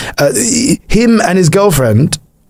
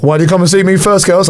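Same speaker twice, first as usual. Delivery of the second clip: mock flirt; 3 semitones higher, faster than usual. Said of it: "I'm joking".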